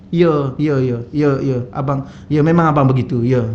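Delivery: yes-dear humble agreement; meek admitting husband. Retold or imitated. Husband meekly agreeing as his wife scolds him before the boss.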